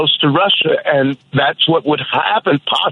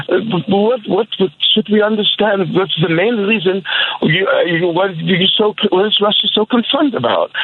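bad British accent; 4 semitones higher than usual. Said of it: "that was a terrible British accent".

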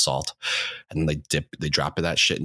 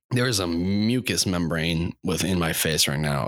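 stuffy nose, nasal; talking through a blocked nose. Real, not acted. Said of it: "that's probably why I sound all nasally".

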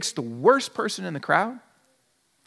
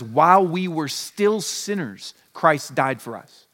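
slow, weighty reading of scripture; solemn quoted verse, unhurried; 4 semitones lower, slower than usual. Shown as a demonstration. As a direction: lay out each word of the verse slowly. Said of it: "the Bible says".

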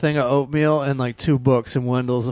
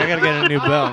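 laughing woman's voice. Retold or imitated. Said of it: "She's like".

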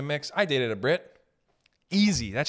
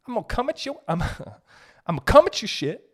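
laughing mock threat; 11 semitones higher, 3 dB louder, faster than usual. Mock aggressive ancestor, laughing.

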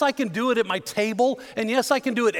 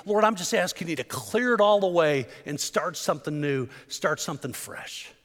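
hushed prayer; 3 semitones lower than usual. Retold or imitated. David begging God to clear his heart, hushed and pleading. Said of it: "He's saying".

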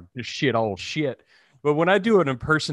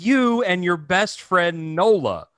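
mildly mocking, drawn-out comeback; lightly accuse, stretching the words; pointed retort; 5 semitones higher, 3 dB louder, slower than usual. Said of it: "And I was like".

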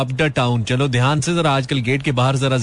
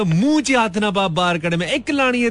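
scolding Punjabi parent; 4 semitones higher than usual. Retold or imitated. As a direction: warn the child like a desi mom. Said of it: "ते ओ जेड़े कहंदे".

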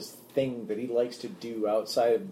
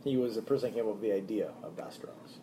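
whispering; 3 semitones lower, 8 dB quieter, faster than usual. Real, not acted. Aside about the producer.

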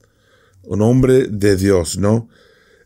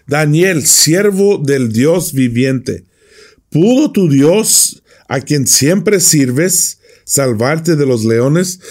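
slow, higher, pleading call into the pit; anguished cry; 4 semitones higher, slower than usual. Acted. Anxious king calling down into the lions' den, anguished slow cry. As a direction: plead slowly, full of dread. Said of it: "lleno de ansiedad, gritó".

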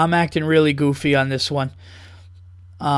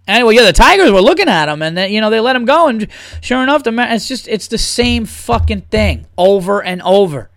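announcer rant; 5 semitones higher, 4 dB louder than usual. Pretend. Announcer voice ranting.

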